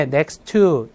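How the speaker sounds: next to, said slowly and linked, first t dropped; teacher's model pronunciation. Shown as a demonstration. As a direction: say next to as "nex to", drop the first T. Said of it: "발음 어떻게 해요?".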